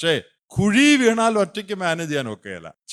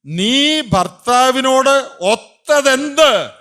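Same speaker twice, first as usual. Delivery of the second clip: very slow, higher, louder scolding; stern rebuke; 9 semitones higher, 6 dB louder, much slower than usual. Retold or imitated. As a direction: Peter demanding an answer, slow and hard. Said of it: "എന്നാ പത്രോസ് ചോദിച്ചേ".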